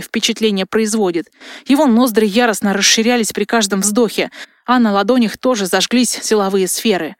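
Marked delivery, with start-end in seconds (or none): none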